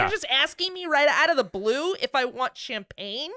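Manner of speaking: baffled, paranoid and stoned; tripping on drugs. Pretend. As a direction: freak out at a harmless question. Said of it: "And you're like".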